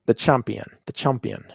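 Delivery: "champion" said as "chumpion"; pun on champion. Shown as a demonstration. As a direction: bend "champion" so it starts like "chump". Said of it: "I'm saying chump".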